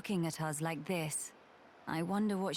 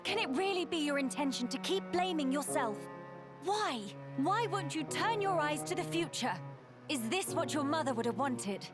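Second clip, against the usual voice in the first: higher, urgent pleading challenge; impassioned reproach; 6 semitones higher than usual. Acted. One woman urging another to face the future, reproachful. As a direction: plead with them to see sense.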